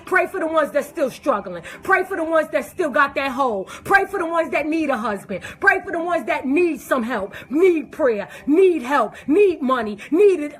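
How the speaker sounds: a call to pray for the sinners; preaching. Acted. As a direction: preach it to the congregation, building. Preaching plea for prayer.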